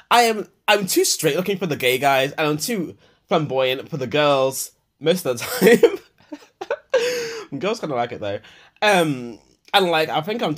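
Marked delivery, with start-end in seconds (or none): 2.3-7.6 slow words through a laugh; amused, laughing through the words. Real, not acted. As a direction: giggle at yourself as you say it. Laughs at own self-description.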